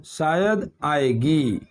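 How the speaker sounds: slow "शायद आएगी" in a lightly voiced woman's tone; mock female speaker. Shown as a demonstration. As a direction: say "शायद आएगी" slowly as a girl would. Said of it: "ऐसे ही बोल सकता है शायद".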